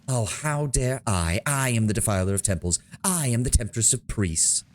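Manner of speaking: lightly acted rage, dragged out on how dare; mild mock fury. Cultist answering the paladin's outrage, mild mock hissed fury. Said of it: "she hisses in fury".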